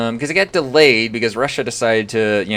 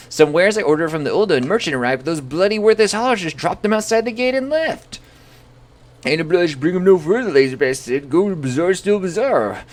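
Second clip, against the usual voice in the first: irritated merchant, higher and hurried; agitated merchant; 7 semitones higher, 3 dB louder than usual. Acted. Streamer voicing the agitated merchant complaining about dropped wares. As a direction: rant about lazy haulers in a huffy merchant voice.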